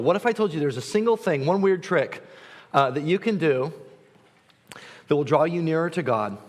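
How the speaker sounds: lightly hammed-up sales pitch voice; infomercial pitch. Shown as a demonstration. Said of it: "This is gonna sound like an infomercial".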